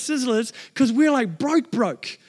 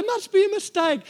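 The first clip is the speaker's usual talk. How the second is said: disbelief; 11 semitones higher than usual. Retold or imitated. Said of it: "I'm like".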